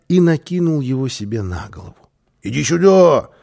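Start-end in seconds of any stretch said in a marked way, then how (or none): 2.4-3.3 high, loud, eager call. A narrator's reading. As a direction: call him over loudly, pitched up. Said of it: "позвал он малыша". (громко, высоко позвать)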